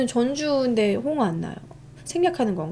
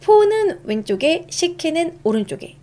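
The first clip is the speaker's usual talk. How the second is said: sing-song recitation; 6 semitones higher than usual. Shown as a demonstration. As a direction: recite it like a memory chant. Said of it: "repeating the rule to memorize". (높고 느리게 외우는 말투)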